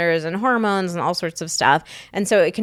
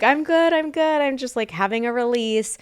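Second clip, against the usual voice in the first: reassuring; 5 semitones higher than usual. Shown as a demonstration. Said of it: "tell your partner, like".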